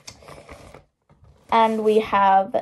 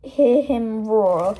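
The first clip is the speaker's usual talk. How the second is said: slow roaring caption; 4 dB louder, much slower than usual. Retold or imitated. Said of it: "This is".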